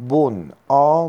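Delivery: «بن، آ» را آهسته، بلندتر و جدا جدا بگو; اجزای بناگوش را شمرده و با تأکید بشمار; هجی کردن اجزا. Shown as a demonstration. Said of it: "مشتق مرکب". (تفکیک شمرده و بلند «بن، آ»)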